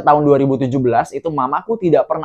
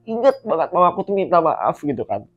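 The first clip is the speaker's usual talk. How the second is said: choked up, high voice; real tearful voice; 6 semitones higher, 4 dB louder than usual. Real, not acted. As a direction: talk on while fighting back tears. Breaks down recalling mother's apology.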